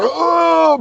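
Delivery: high, drawn-out pained "oh"; hammed-up howl of a man winded; mock howl of pain. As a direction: imitate a beaten man groaning. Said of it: "He's, like, howling".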